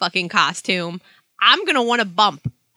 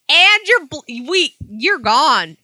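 retold angry cutoff; 6 semitones higher, 6 dB louder, slower than usual. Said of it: "And I'm like".

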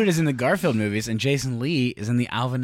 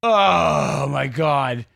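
drawn-out groan; much slower than usual. Retold or imitated. Groaning at a goofy twist.

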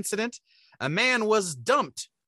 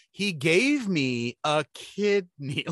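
mother's voice; much slower than usual. Retold or imitated. Mother's punchline, very slow.

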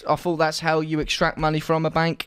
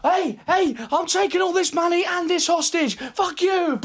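high defiant robber shout; bank robber; 10 semitones higher than usual. Acted. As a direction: taunt the cops as the robber. Robber defies police.

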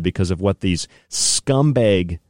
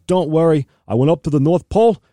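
much higher, louder mock reassurance; Doctor Fauci impression; 6 semitones higher, 3 dB louder than usual. Mocking an official reassuring the public, higher and louder. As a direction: play a smug official boasting. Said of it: "And Doctor Fauci's like".

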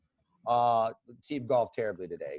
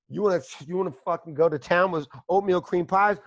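mock taunt; 4 semitones higher, 4 dB louder than usual. Taunting Brandon Schaub.

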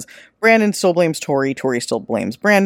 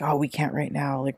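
softer, hushed retelling of a whisper; imitating whispering friends on the phone, much softer; mock whisper; 8 dB quieter than usual. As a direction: drop to a hushed half-whisper like hiding. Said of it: "they're whispering as though they're in a movie".

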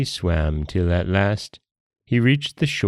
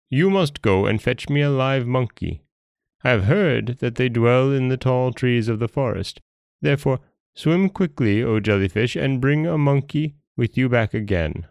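higher-pitched storybook king giving orders; commanding Dragon King; 5 semitones higher than usual. Acted.

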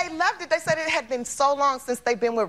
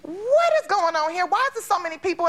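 imitating Jada; 6 semitones higher than usual. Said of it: "she goes".

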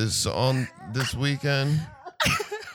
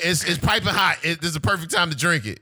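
high, sing-song imitation; mimicking a friend; 9 semitones higher than usual. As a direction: play up the friend's voice. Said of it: "Christian be like".

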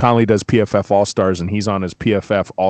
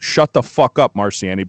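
quoted coach yell; 2 semitones lower than usual. Retold or imitated. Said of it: "and I quote".

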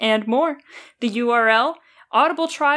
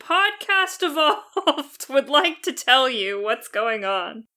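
town crier; 3 semitones higher, slower than usual. Acted. Herald announces podcast's empire news.

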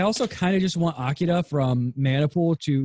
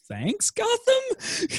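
sarcastic thanks; much slower than usual. Real, not acted.

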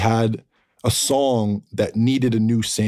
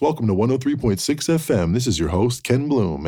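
radio announcer voice; 3 semitones higher than usual. Retold or imitated. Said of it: "he would do this radio announcer voice".

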